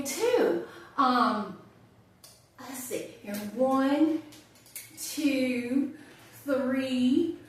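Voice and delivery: musing, chatty birthday reflections with pauses; wry monologue character. Acted. Woman telling a friend her birthday plans, wry and musing. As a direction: think aloud, wry and making light of it.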